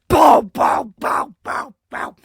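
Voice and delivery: booming mock impact sounds, fading out; punchy "bow" sound effects, loud at first; imitated punch noises. Podcaster mimicking a mounted beating, punchy vocal sound effects. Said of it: "it's just like".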